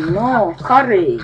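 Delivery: ordinary talk, nothing marked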